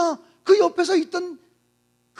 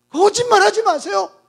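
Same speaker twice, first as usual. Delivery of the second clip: louder, rising accusation; bitter raised denial; sharp retort; 4 dB louder than usual. Acted. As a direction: fling it at him. Woman's retort repeated aloud.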